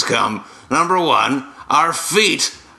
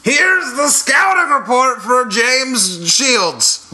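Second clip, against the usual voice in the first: announcer voice; 11 semitones higher, 3 dB louder, slower than usual. Acted. Mock sports scouting report.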